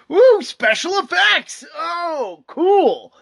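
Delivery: high shouted mock excitement; sarcastic cheer. Scoffing at Newsweek's wording, mock shouted cheer. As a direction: cheer it like a dumb slogan.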